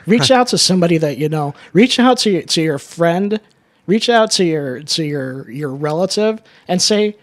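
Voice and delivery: rally the listeners to reach out; urgent rallying appeal; emphatic call to action. Real, not acted. Urging listeners to act.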